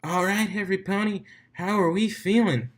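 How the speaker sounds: high, bright crowd call; hype announcer. Acted. DJ firing up the stadium crowd, excited. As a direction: pump up the crowd.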